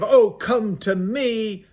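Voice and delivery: hammed-up sultry invitation, slow; seductive call. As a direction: lure them in like a temptress.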